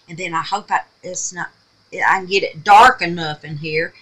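halting, stuttering restart. Real, not acted. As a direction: stumble over the words. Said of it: "I'm stuttering".

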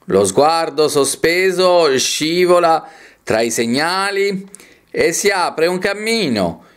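slow, measured poetry reading; poem recitation. Acted. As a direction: declaim each phrase, lingering on the stressed vowels. Reads a poem aloud.

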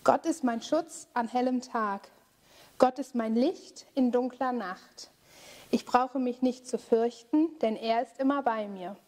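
calm, steady recited refrain; prayer refrain. Acted. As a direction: lead the group in a spoken prayer.

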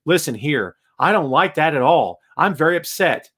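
lightly robotic mock anger; measured, wooden declaration of being upset; Baron Corbin. Host mimicking a wrestler who gets mad, stiff and robotic. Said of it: "Robot. Robot, hello".

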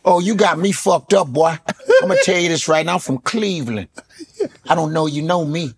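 a lightly voiced Steve Harvey, teasing and threatening; mock-threaten like Steve Harvey with a laugh; light Steve Harvey threat, singsong in places; Steve Harvey impression. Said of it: "Steve, I hope you see this imitation".

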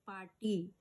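slow पाटी with a long final ई; दीर्घ उच्चार. Shown as a demonstration. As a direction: stretch the last vowel of पाटी. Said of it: "नेहमी दीर्घ द्यायचं". ("पाटी" मधली शेवटची ई लांबवून)

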